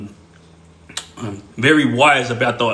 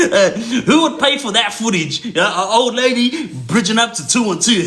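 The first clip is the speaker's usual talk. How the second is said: higher, tickled delivery; amused, near laughter; 6 semitones higher than usual. Real, not acted. Storyteller marvelling at footage of old lady, laughing amusement. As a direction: talk while fighting back laughter. Still cracking up.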